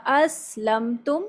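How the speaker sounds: اسلم تم slowed, each hamza voiced apart; slow tajweed demo; separate hamzas. Shown as a demonstration. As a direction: say اسلم تم with both hamzas sounded clearly. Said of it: "الگ سے آواز نکالیں گے".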